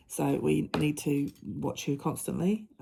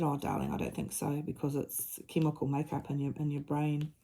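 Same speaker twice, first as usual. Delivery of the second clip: tender reply; 4 dB quieter than usual. Retold or imitated. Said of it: "And I said".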